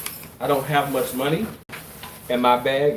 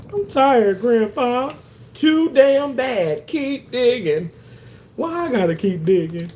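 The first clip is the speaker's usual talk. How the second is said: light skit voices; 6 semitones higher, 4 dB louder than usual. Pretend. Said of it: "voicing a grandpa dialogue".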